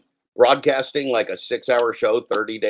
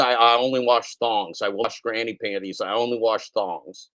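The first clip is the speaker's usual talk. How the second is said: slow, deliberate mock pitch line; slow mock slogan. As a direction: spell it out slowly like a sales slogan. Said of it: "Just say".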